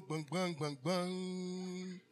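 mock banging, last one drawn out long; imitated banging sound. Preacher acting out a scene for the church, imitated noise. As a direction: draw the final bang into a long hum.

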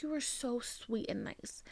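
whispered retelling of praise; very hushed, kindly quote; tender quote. Retold or imitated. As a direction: imitate a gentle compliment in a whisper. Retelling mother's kind words.

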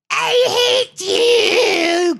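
high, loud, crying scream; screaming sob. Acted. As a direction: shriek it through tears and laughter. Anakin screaming back.

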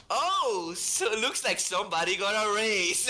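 high, gloating teasing voice; mock the cheerful HR man gloating over the raise; smug HR guy. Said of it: "he goes".

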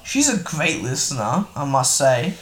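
sarcastic. Real, not acted. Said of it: "I'm being sarcastic".

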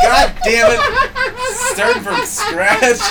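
loud, high, drawn-out mock frustration; hammed-up exasperated outburst; retold exasperation. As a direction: curse slowly at full volume through laughter. Retold frustration at rejected joke.

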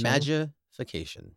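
words round a flossing pick; talking through dental floss; while flossing teeth. Real, not acted. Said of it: "I'm not, I'm flossing".

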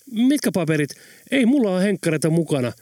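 high, fast, frightened babble; terrified and confused. Acted. A hint of terror as the man answers the gunman. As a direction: blurt it out in a panic. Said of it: "mies selitti kauhistuneena ja epätietoisena".

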